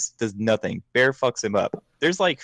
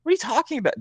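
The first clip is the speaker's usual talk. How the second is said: imitated bafflement; much faster than usual. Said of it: "It's like".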